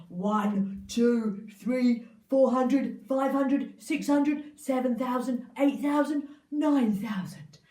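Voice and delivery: loud counting giant. Acted. Giant counting his gold coins, loud and gloating.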